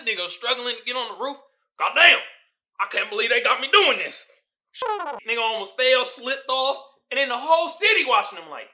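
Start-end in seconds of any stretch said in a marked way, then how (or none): 1.8-4.3 mock weary Denzel. Voicing Denzel struggling on roof.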